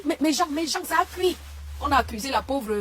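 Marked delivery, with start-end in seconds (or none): 0.0-1.4 mocking imitation. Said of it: "Elle dit".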